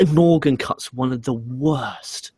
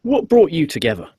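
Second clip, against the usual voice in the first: higher, louder mock interviewer question; mimicking an interviewer, pitched up; imitated backstage interviewer; 5 semitones higher, 3 dB louder than usual. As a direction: put on a perky presenter's question. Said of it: "So she goes".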